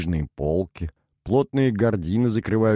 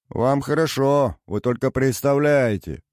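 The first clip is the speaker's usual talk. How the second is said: mock-aggrieved sigh; 5 semitones higher than usual. A narrator's reading. Captain complaining playfully to the singer, feigned sigh. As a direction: lament it with put-on self-pity. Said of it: "притворно вздохнул Базза".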